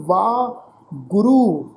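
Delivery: ਵਾਹ as a long "vaa", then ਗੁਰੂ apart; ਵਾਹ, a pause, ਗੁਰੂ with a long final u; correct pronunciation. Shown as a demonstration. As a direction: split ਵਾਹ and ਗੁਰੂ, no i after the h. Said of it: "ਤੋ ਪਾਠ ਉਚਾਰਨ ਕਰਾਂਗੇ ਜੀ".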